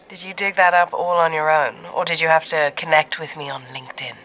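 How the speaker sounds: lightly voiced cool, amused woman; amused Rachel. Rachel mocking the caller who found her number, cool amusement. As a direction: tease him with crisp amusement. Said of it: "Rachel chuckled".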